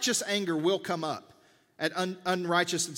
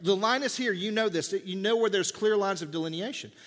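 firm parent. Retold or imitated. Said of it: "you have to say".

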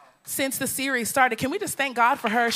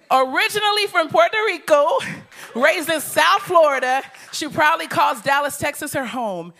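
loud hype; 4 dB louder than usual. Real, not acted. Hyping up the congregation.

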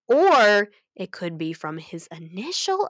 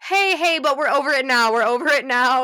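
higher, loud, breezy laugh; 5 semitones higher, 5 dB louder than usual. Real, not acted. Shrugging off old bullying to viewers, laughing. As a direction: brush it off with a laugh.

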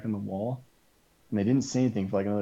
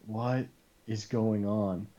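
drawn-out, bewildered disbelief; slow-motion bewilderment; baffled; much slower than usual. Retold or imitated. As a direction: retell it slowly, spacing out the words in bafflement. Retold bafflement at the cop's antics.

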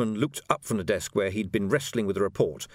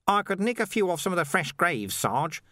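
higher, eager offer; Nobby volunteering; 9 semitones higher than usual. Acted. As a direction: chirp up helpfully. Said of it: "Nobby volunteered".

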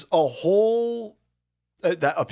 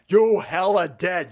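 shouting; 3 semitones higher, 4 dB louder, slower than usual. Real, not acted.

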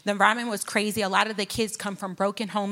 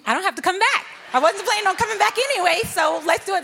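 much higher and louder, rushing, cheeky; mock daring glee; 10 semitones higher, 5 dB louder, faster than usual. Retelling her plan to preach before the school year ends, cheeky and excited. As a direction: egg yourself on like a kid planning mischief. Joking about getting fired.

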